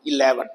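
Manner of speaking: इलेवन punched on LE; middle-syllable stress. Shown as a demonstration. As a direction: show the stress in इलेवन as i-LE-vun. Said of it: "तो stress यहां है". (इलेवन में "ले" पर ज़ोर देकर)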